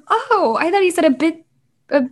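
the penny drops, half laughing at yourself; sudden realization. Retold or imitated. Realizing the misunderstanding.

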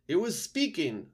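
high owl telling; the owl reporting. A narrator's reading. Owl character voice.

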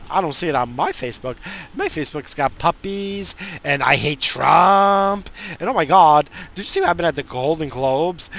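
mock the oblivious social media type; hammed-up ditzy gossip parroting celebrity news; mock airhead voice. Mocking an oblivious Facebook user.

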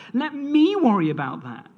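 a firm, fatherly God taking the burden; voicing God. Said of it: "says God".

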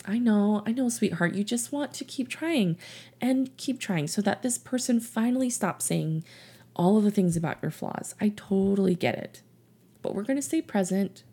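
put-on calm and tender, like a parent reassuring a child; gentle soothing. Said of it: "You just lovingly listen to them".

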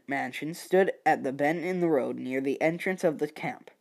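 ordinary delivery, nothing marked

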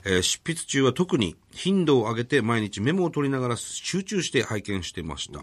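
even, measured formal read-out; reading a letter aloud. Real, not acted. Radio host reads an author's thank-you letter to co-host, formal read-out. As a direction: read the polite letter out, clause by clause.

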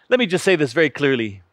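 ordinary talk

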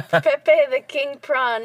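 slow, emphatic King Prawn; careful Prawn. Shown as a demonstration. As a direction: spell out Prawn clearly. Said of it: "Prawn, not prong".

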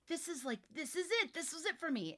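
high, thrilled aha moment; light up with discovery; excited realization. Retold or imitated. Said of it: "It's like".

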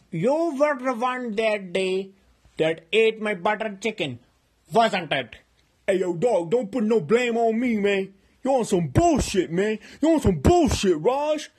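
loud, angry and rising, building toward a yell; an angry standoff over the butter chicken; heated confrontation. Acted. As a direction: square up to Tyrone. Confronting Tyrone, escalating quarrel.

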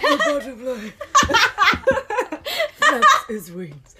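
mock sultry nature-documentary narration; playful sultry documentary voice; David Attenborough. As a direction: narrate a nature film, breaking into laughter. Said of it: "David's sultry".

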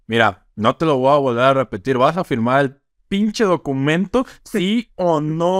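a lawyer losing patience, escalating; mock threat demanding a signature; mock angry demand. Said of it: "Ya le dice el".

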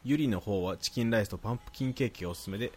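even, articulate read-aloud; reading listener mail. Acted. Host reading a listener's praise to co-host, reading aloud. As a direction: read the letter out neatly.

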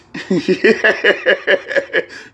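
long high-pitched cackle; high laugh. Real, not acted. Podcaster cracking up at his own rant, laughing. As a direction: burst out laughing at your own joke.

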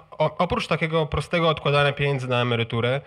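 usual speaking voice

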